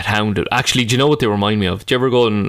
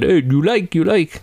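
pitched-up, eager sales patter; insistent, higher accented question; street seller; 6 semitones higher, slower than usual. Retold or imitated. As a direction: imitate a foreign hawker pushing his wares. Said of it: "he said".

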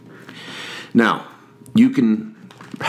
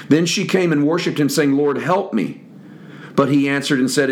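measured Bible reading voice; steady scripture recitation. Acted. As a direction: read the passage aloud to the congregation. Reads scripture aloud.

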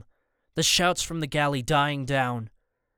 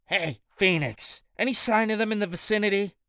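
thug on the radio; 6 semitones higher than usual. Acted. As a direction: bark it into the radio.

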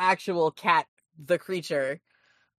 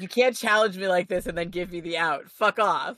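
put-on dumb French accent. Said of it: "making me do it in this dumb French accent".

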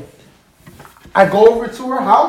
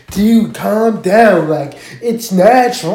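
chill doctor; slower than usual. Retold or imitated. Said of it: "the doctor was like".

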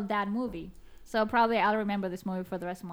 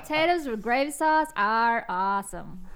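put-on Southern accent. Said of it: "Can you do a Southern accent?".

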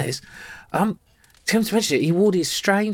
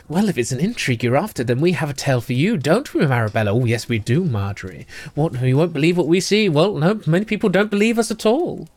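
lightly voiced, hushed gossiping ladies; a hint of two scheming sisters telling a tale; conspiratorial twins. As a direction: lean in and share a secret. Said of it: "lean in conspiratorially and go".

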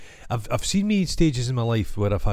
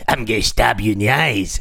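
threatening shout; 5 dB louder than usual. Retold or imitated. Voicing the threatening man.

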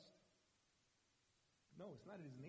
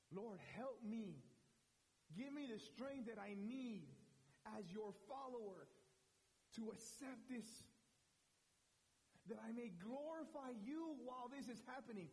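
humble prayer; 5 semitones higher than usual. Retold or imitated. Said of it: "what Peter should have done".

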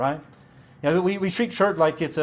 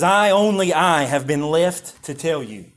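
raised, louder opening on "I, only I", slowing after; emotional intensity; 4 dB louder than usual. Retold or imitated. Preacher quoting the lone surviving servant to Job, intense. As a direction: stress both I's, then ease off slowly. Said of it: "just an emotional intensity to that".

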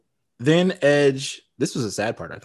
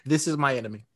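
bad British accent; 4 dB quieter, faster than usual. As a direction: do a half-hearted, pretty terrible British accent. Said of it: "that was your British accent?".

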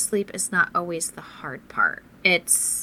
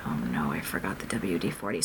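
dismayed; 13 semitones lower, 5 dB quieter than usual. Retold or imitated. Dismayed realization, much lower.

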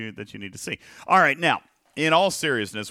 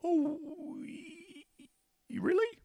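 high, squeaky incredulous oh; mock disbelief; 7 dB quieter, slower than usual. Real, not acted. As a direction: feign shock at the claim.

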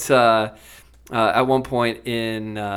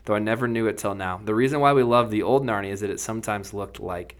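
story reading; 2 semitones higher than usual. A narrator's reading. Host reading C S Lewis to his co-hosts, lively storyteller voice. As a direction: bring the Narnia scene to life for listeners. Reads Narnia passage aloud.

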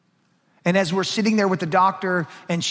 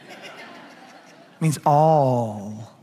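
"It means all" stretched very slowly, each word held; drawn-out reveal; 4 semitones lower, much slower than usual. Shown as a demonstration. Pastor drawing out the answer to his congregation, very slowly. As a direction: drag out "all" for the punchline. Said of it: "This is gonna blow your mind".

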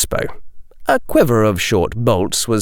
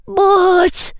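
put-on prissy young girl. A narrator's reading. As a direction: whine like a spoiled schoolgirl. Girl student protesting.

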